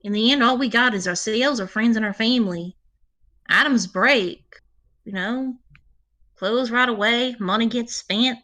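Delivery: touched, folksy ranger, lightly voiced; Magpie the ranger. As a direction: talk kindly in a folksy in-character voice.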